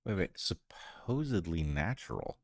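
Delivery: jumping high on what's supposed, disbelieving; incredulous. Real, not acted. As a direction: pounce on the word in disbelief.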